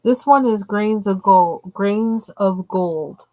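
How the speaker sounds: talking around tight braces. Real, not acted. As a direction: mouth stiff from new braces. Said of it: "Sorry, I can't talk right. My braces are bracing".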